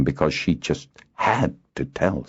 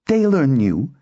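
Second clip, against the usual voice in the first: high, heated comeback; indignant and raised in pitch; hot retort; 10 semitones higher, 4 dB louder than usual. A narrator's reading. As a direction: fire back defiantly, pitched up. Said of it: "replied just as hotly".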